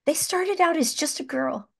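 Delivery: close to tears. Real, not acted. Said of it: "I'm gonna cry".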